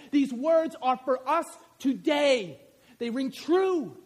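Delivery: loud, driving pulpit preaching, well above his talk; preaching at full force. Acted. Pastor sending his congregation into the community, fiery loud preaching. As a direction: rouse the congregation like a revival call.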